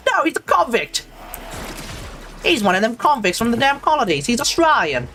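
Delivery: bad British accent. Streamer mimics the British calling him a convict, pompous mock-British accent. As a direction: act all pompous in a rough British accent. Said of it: "not a particularly good British accent".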